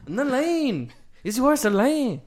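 loud squeaky falsetto bickering; high squeaky voice. Pretend. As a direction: whine it in a silly high voice.

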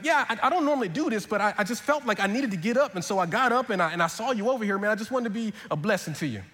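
put-on gentle Southern accent, sincere. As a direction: speak like a humble Southern helper. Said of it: "stick with this accent".

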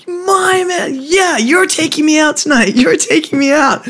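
high mock female voice; imitating a rapper. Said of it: "She's like".

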